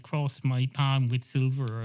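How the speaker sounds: slow, drawn-out fortune teller line; intoning fortune teller. Retold or imitated. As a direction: stretch it like a mystic palm reader. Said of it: "they say something like".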